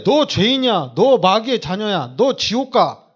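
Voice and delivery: lecturing accusation. Retold or imitated. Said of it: "이렇게 얘기하면 이거는 가르치는 거거든요".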